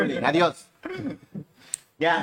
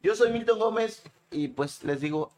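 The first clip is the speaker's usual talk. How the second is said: mouth full. Real, not acted. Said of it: "Milton habló con la boca llena".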